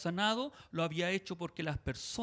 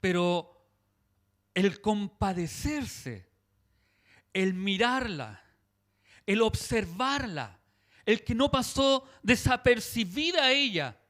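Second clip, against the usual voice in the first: building emphasis; 2 semitones higher, 4 dB louder, slower than usual. Real, not acted. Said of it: "preaching builds".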